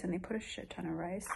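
hushed aside, almost silent; whispering. Real, not acted. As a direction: drop to a breathy whisper. Whispered aside about the rice.

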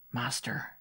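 gardener's hushed call; whispered. A narrator's reading. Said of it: "he whispered".

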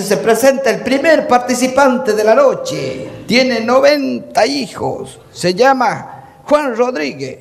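slow announcer presentation. Acted. Announcer presenting contestant to the crowd, slow and grand. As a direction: announce each word slowly to the crowd.

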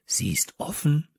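hushed, secretive whisper. A narrator's reading. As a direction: whisper your discovery to friends. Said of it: "flüsterte ich".

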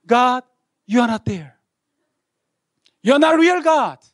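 high, loud accusing cry; screaming at God. Retold or imitated. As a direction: yell the denial upward. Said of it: "I don't know why I screamed".

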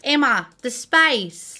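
put-on Australian accent, slowly drawn out. Builder imitating an Australian calling to Emma, Australian accent. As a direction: attempt an Australian accent on SPACE. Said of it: "my Australian accent".

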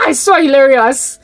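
amused, laughing through the words. Real, not acted. Tickled by the pregnant-duck comparison, laughing. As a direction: break into a laugh, then speak.

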